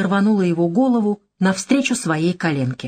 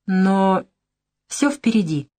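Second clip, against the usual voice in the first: insinuating; 3 semitones higher than usual. Acted. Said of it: "с намёком добавила".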